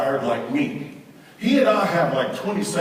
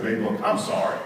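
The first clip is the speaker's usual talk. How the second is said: lower, mildly contrite; cooled-down apology; 6 semitones lower than usual. Acted. Husband calling wife back, mildly apologetic. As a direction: make peace in a lower voice. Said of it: "We give ourselves a timeout".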